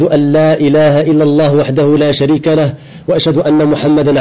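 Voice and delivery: fast, even-pitched Arabic recitation; formal Arabic sermon opening. Acted. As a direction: recite the opening formula briskly by heart. Opens by reciting the sermon formula. (récitation rapide et régulière du prêche en arabe)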